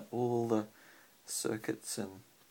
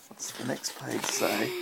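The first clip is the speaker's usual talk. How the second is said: whisper. Real, not acted. Whispered question to child.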